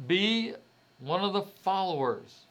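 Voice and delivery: high, loud mock command; imitated stern orders. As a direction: hit BE hard, as society laying down the rule. Voices society's orders to conform.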